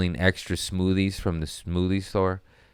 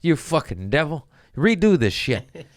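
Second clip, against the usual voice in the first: mock yelling; 11 semitones higher than usual. Underling yelling at managers about bruised fruit, high manic scolding. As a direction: rant like a lunatic over fruit. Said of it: "I'm the underling yelling".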